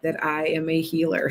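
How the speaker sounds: gentle hypnotic delivery; calm hypnotist voice. Shown as a demonstration. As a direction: ease the listener down. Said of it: "because watch".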